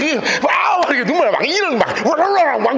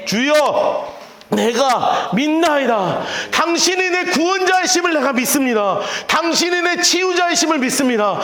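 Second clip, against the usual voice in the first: slow, rising prayerful declaration; fervent confession; 2 semitones higher than usual. Acted. 맹인이 예수님께 믿음을 고백하며, 간절하고 열정적으로. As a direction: pour out faith line by line.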